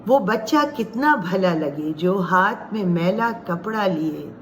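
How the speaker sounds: measured recital with pauses between phrases; poem recitation. Acted. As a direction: recite it line by line, lingering on key words.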